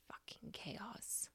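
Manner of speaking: breathy whisper, slowed right down; whispered curse. Retold or imitated. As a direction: hiss it out, overwhelmed by the mess. Virgo overwhelmed by the mess.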